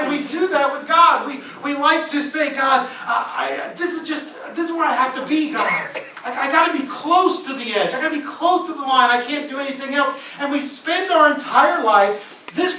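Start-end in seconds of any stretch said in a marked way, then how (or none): 2.5-10.2 loud, higher pleading to God; half-laughing plea to God, loud and high; shouted mock prayer. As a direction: insist loudly you must stay near the edge.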